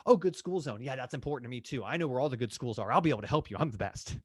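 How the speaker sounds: hammed-up know-it-all agent; bragging agent mock. Shown as a demonstration. Realtor trying to impress a client, mock boastful. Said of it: "That's, that's actually garbage".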